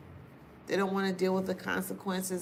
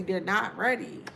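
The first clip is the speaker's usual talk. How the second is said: normal talking voice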